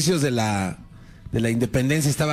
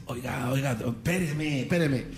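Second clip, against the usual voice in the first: hushed aside; 5 dB quieter than usual. Retold or imitated. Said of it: "se le acerca y le dice".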